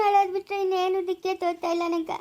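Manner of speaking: speaking through tears; words breaking with crying. Acted. Mother to her son over the missing boy, crying. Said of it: "ನೀನ್ ಅಳೋದ್ ನಿಲ್ಸಮ್ಮ".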